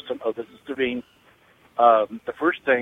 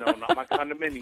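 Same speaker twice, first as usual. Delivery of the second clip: squeaky high voice; 13 semitones higher, 7 dB quieter than usual. Acted. Caller's high silly voice.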